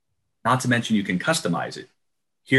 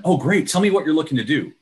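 upbeat broker; 6 semitones higher than usual. Retold or imitated. Broker answering client.

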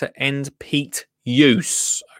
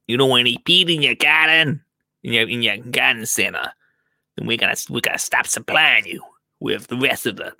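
lightly voiced mafia heavy making a threat; mafia reenactment. Supplier threatening a peat-free garden centre, mild mock mafioso. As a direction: lean on them like a mild mock gangster. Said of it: "that is an exact impression of what happens".

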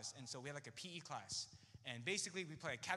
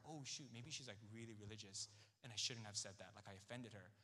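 softer, lower anxious thought; worried inner voice; 6 semitones lower, 8 dB quieter than usual. Retold or imitated. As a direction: mutter it to yourself in a worry.

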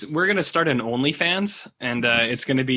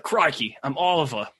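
put-on New Zealand accent. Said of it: "that's the speaker's New Zealand accent".

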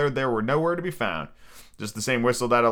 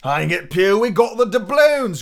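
high, drawn-out pirate complaint; grumbling; 6 semitones higher, 6 dB louder than usual. A narrator's reading. Pirate protesting they have the doubloons, grumbling. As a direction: whine it out at Pew. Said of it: "grumbled one".

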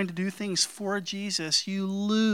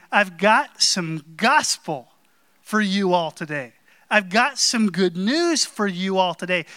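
proclaiming; 4 dB louder than usual. Retold or imitated. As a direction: announce it like good news. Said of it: "he's saying".

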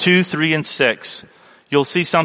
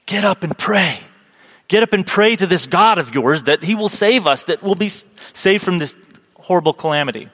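pleading sea captain; 3 semitones higher than usual. Retold or imitated. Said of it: "he's saying to Jonah".

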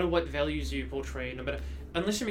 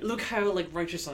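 mock self-righteous; 4 semitones higher, 5 dB louder than usual. Mocking virtue signallers.

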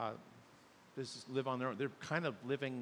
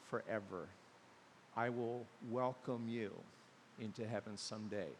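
tender promise; 4 dB quieter than usual. Acted. God voiced welcoming sinners.

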